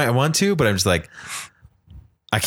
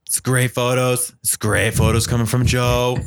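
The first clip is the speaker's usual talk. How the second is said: Donald Trump voice. Pretend. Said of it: "I told you I'm working on it".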